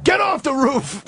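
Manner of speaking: high, drawn-out mock shout; retold shout. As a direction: imitate an angry priest calling up to men on a roof. Priest ordering men off roof.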